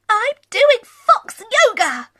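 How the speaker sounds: a gentle, pleased little fox showing off a pose; calm Scaredy Fox. Acted. Voices Scaredy Fox in story.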